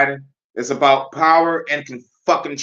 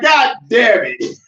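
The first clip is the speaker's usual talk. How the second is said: mock yell; 8 semitones higher, 5 dB louder, slower than usual. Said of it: "I'm like".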